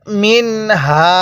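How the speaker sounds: মিনহা slow, নুন said clearly; clear নুন সাকিন. Shown as a demonstration. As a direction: draw out মিনহা, the n distinct. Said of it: "কিভাবে পড়ব?".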